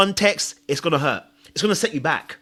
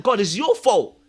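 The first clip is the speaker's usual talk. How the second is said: higher-pitched retold accusation; angry at God; 5 semitones higher, slower than usual. Speaker blaming God for his situation, angry. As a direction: blame heaven with mock indignation. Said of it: "I got angry at God".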